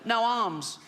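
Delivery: high, put-on sickly child's voice; funny little voice. Little boy answers why he needs it motorised, funny little voice. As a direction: squeak it as the bad-chested little boy. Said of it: "a funny little voice 'cause his all".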